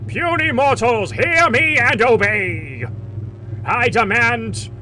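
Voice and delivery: booming slow godlike voice; loud, slow mighty dragon. Pretend. God voice over the transmitter.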